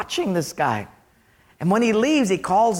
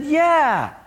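acted protest, stretching out the complaint; indignant Eve; slower than usual. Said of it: "and she said".

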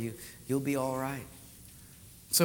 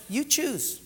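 God's voice; 8 semitones higher than usual. Retold or imitated. God quoted, then echoed plainly.

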